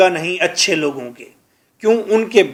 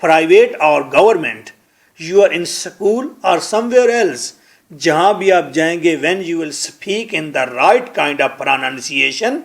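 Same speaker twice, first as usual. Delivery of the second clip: slow careful English; much slower than usual. Shown as a demonstration.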